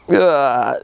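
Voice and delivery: short imitated groan of dread. Acting out nervous man's discomfort.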